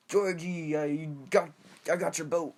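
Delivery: lightly voiced sly clown; creepy clown voice. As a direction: coax like a sinister clown. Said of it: "My name's Pennywise".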